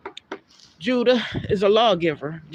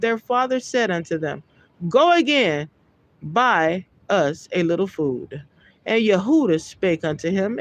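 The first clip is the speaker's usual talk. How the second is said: raised, measured Bible reading voice; scripture reading; 3 semitones higher than usual. Acted. Preacher reading Genesis aloud to his listeners, solemn. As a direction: read the verse out with solemn weight.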